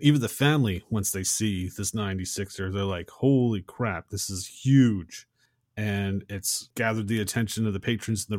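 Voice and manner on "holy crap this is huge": mock amazement, punching the last word; amazed. Family gawking at the huge ninety-sixer, amazed. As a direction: react impressed, drawing out the end.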